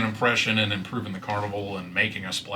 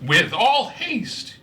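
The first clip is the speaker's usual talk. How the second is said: bee voice; 13 semitones higher, 4 dB louder, much slower than usual. Acted. GM voices Kettlestein urgently.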